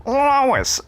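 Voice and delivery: high, loud cartoon dad yell; Peter Griffin voice. Teasing a coworker at work, loud Peter Griffin call. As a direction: bellow the name like the cartoon dad. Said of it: "in a Peter Griffin voice".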